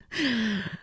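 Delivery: short, soft laugh starting high and falling. Real, not acted. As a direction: let out a quick falling laugh. Laughs after saying she did it.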